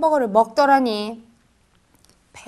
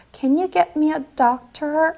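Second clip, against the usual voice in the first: slow first take; much slower than usual. Shown as a demonstration. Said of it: "한번 해볼까요".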